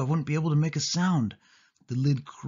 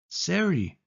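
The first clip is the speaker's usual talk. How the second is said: high, drawn-out call across the room; 7 semitones higher than usual. Acted. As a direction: call her name, searching. Calling out in empty room.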